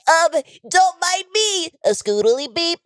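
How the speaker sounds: high, drawn-out mock nonchalance; show-off card payer. Host imitating Lee paying by card, hammed-up casual show-off. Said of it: "he takes out his credit card and he goes".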